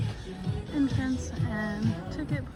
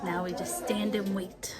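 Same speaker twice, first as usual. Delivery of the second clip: whispering; 4 dB quieter than usual. Real, not acted. Quiet aside while waiting in crowd.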